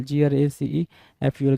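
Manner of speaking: spelled letter by letter. Shown as a demonstration. Teacher spelling out a word for students, slow and letter by letter. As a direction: slowly spell out each letter. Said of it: "ग्रेसफुल".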